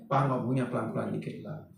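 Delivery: low, soft-spoken plea; gentle wifely request. Acted. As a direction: ask the husband softly and low. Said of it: "sebaiknya suami istri itu ngomong papa".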